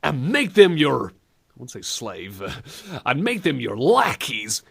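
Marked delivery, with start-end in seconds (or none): 0.0-1.1 high, slow hammed-up accusation; playground kid. Kids on the playground, high slow mock outrage. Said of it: "a bunch of kids on the playground". 3.1-4.6 put-on playground kid. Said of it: "a bunch of kids on the playground".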